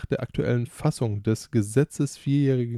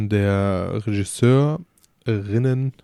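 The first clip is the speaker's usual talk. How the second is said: stifled giggles; 6 dB louder, slower than usual. Real, not acted. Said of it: "hör auf zu lachen".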